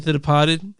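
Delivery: put-on Departed said in the movie's accent. Fan explains his way of saying the title, Departed in movie accent. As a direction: copy the film's accent on Departed. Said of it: "I call it that 'cause that's how they say it in the movie".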